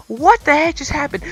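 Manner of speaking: stunned disbelief. Retold or imitated. After the alarm goes off, high baffled disbelief. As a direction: ask it wide-eyed, unable to believe it. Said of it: "I'm like".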